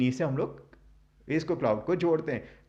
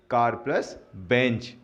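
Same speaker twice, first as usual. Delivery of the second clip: slow, deliberate; 3 semitones lower, slower than usual. Shown as a demonstration. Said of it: "जोड़ते हैं".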